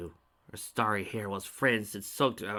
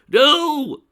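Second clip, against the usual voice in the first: higher, loud desperate no; yelled; 17 dB louder than usual. A narrator's reading. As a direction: yell it out in horror. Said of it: "yelled Spike".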